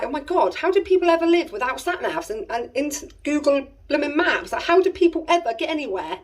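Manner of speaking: high, exasperated rant at herself; exasperated disbelief. Retold or imitated. Lost mum ranting at Google Maps, high exasperated disbelief. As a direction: throw your hands up, high and incredulous.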